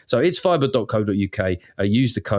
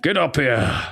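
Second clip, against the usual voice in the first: mock Dickensian London accent; hammed-up Victorian accent; 3 semitones higher than usual. Mock Victorian calling a boy over, hammed-up London accent. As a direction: call out like a stagey Victorian Londoner. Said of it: "You're gonna do the accent?".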